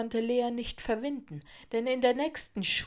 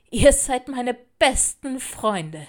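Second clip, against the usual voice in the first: loud, high, drawn-out joy; delighted; 6 semitones higher, 11 dB louder, slower than usual. A narrator's reading. Girl thanks her new friends, delighted. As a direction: declare it happily, stretching the words. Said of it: "lachte sie".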